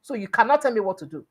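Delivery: imitating an angry shout; mock shouting. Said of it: "he dey shout".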